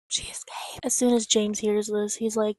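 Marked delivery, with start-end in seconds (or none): 0.1-0.8 hushed, suspenseful whisper; breathless storyteller whisper; dramatic whisper. Real, not acted. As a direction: whisper it like a plot twist.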